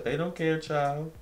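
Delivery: high-pitched imitated brush-off; dismissive retort. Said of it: "she says it just like that".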